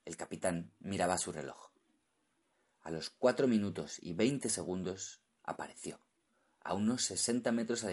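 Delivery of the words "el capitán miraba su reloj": ordinary delivery, nothing marked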